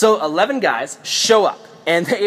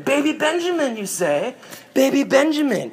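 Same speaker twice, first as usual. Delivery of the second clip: high, scheming villain musing; supervillain; 7 semitones higher, 4 dB quieter than usual. Acted. Joseph seizes on the youngest brother, supervillain musing. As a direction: savour the name like a plotting villain. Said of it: "like a supervillain".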